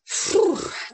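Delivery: long blown-out puff of overwhelm; overwhelmed sigh. Retold or imitated. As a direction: let out a big, airy exhale. Overwhelmed by hormonal moments.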